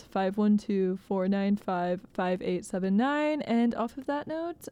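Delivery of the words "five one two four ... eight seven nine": phone number read. Shown as a demonstration. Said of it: "repeating phone number".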